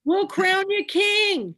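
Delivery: crowning him with a chuckle; playful laughing offer. Real, not acted. Joking welcome to guest.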